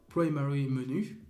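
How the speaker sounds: English name said with an English accent in French talk. Real, not acted. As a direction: say Primary Menu the English way. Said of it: "Désolé pour mon accent anglais".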